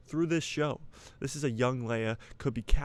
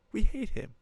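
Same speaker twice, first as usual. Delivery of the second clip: mock yell; 11 semitones higher, 4 dB louder than usual. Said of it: "He's like".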